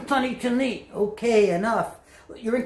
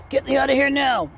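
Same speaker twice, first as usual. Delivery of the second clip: panicked demand; 4 semitones higher than usual. Acted. Frightened turkey demands escape.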